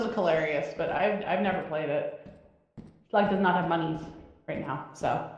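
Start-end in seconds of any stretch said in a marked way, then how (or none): 3.1-5.3 low silly slug voice. Pretend. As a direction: talk like a sluggish little slug. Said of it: "slug voice".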